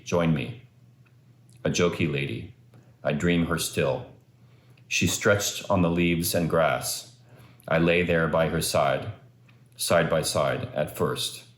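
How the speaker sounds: measured, understated poetry recital; poem reading. Acted. Son reading dad's poem about a hillside picnic, measured recital. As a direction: let each image land, pausing between phrases. Reads another of dad's poems.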